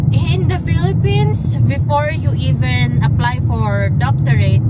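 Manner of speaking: loud, deliberate retold lecture; emphatic explaining. Nurse retelling how they explained the doctorate requirements, emphatic explaining.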